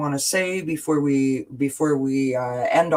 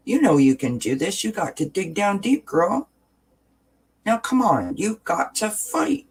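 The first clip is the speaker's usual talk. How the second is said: high, rising self-motivation; urgent pep talk; 7 semitones higher than usual. Shown as a demonstration. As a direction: coax yourself to fight, pitch climbing high. Mirror pep talk to herself.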